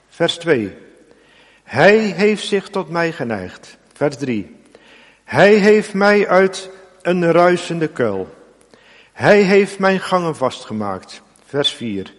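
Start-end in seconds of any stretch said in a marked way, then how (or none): 1.6-3.8 "Hij" stressed, slow and deliberate. Shown as a demonstration. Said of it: "nadruk op hij". 5.2-11.2 each "Hij" stressed, slow and deliberate. Shown as a demonstration. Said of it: "nadruk op hij".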